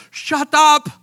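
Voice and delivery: high, loud imitated outburst; mock irate yell. Irate guy at Culver's, mock shouting. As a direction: yell it as the fed-up customer.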